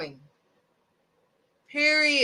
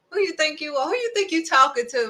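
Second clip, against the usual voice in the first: scolding parent; 4 semitones higher, faster than usual. Retold or imitated. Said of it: "That's what we say".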